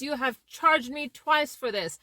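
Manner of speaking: a mild demo of a frustrated customer; moderately heated complaint; angry client. Shown as a demonstration. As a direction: push the words out like a fed-up caller. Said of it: "talking in a very angry and frustrated voice".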